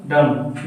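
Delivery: "डम" ending on m, no b; silent B. Shown as a demonstration. Teacher drilling the word dumb, silent B in "डम". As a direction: say "डम" with the b left silent. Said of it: "बी का उच्चारण नहीं करना".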